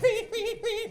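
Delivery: high, staccato horror-movie sound effect; Jason stalker sound. Retold or imitated. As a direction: imitate the slasher's eerie repeated sting. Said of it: "She laughed at my impression".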